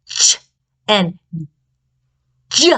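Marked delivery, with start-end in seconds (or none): 0.1-0.4 "ch" as a short burst of air; ch sound. Shown as a demonstration. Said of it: "sounds like this".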